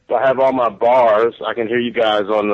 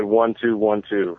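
repeating the mic check; 2 semitones lower, 3 dB quieter than usual. Retold or imitated. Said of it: "You said".

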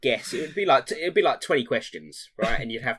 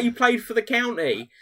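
laughing mock Joe; 10 semitones higher, 3 dB louder than usual. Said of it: "he was like".

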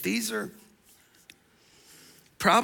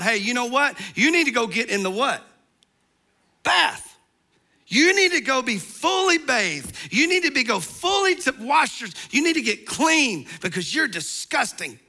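raised, emphatic mom ordering a bath; scolding parent; 4 semitones higher than usual. Retold or imitated. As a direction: boss the messy kid into the tub. Parent scolding a muddy child.

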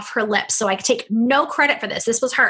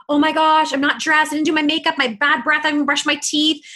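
higher, flustered, pretending to be caught unprepared; mock panic; 4 semitones higher than usual. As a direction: play the frazzled host at the door, hammed-up. Panicked unprepared entrepreneur at door.

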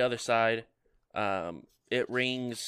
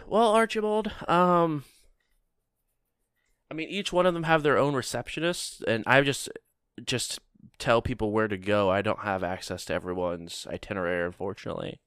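receptionist voice. Acted.

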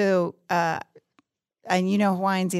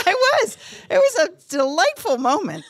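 laughing; 12 semitones higher, 5 dB louder than usual. Real, not acted. Laughing admission of eating alone.

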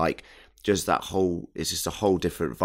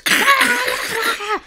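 infected human noise; 5 dB louder than usual. Acted. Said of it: "should have made an infected human noise".

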